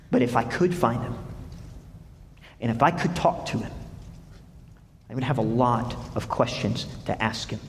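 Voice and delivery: Job's quiet wish to find God; hushed longing. Acted. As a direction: read it almost to yourself. Job's longing, read softly.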